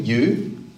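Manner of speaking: "you" set apart and emphasized; single out "you" with weight; stress on YOU. Shown as a demonstration. Preacher showing where the emphasis falls, stress on "you". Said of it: "The emphasis on James and John is on them".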